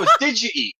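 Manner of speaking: "did you eat" run into didja-eat, insistent; Wisconsin pronunciation. Shown as a demonstration. Correcting the host with a laugh, local pronunciation. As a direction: stress "did" and blend it, did-juh-eat. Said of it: "we say".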